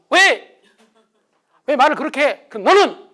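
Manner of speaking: loud, high, defensive retort; loud bickering reply; quarrel. Retold or imitated. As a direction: argue back like an irritated spouse. Spouses quarrelling.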